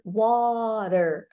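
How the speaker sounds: "water" with a quick tap for T; tapped T. Shown as a demonstration. Teacher gives learners the word water as example, tapped T. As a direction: let the tongue flick the T in "water". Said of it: "pronounced like R".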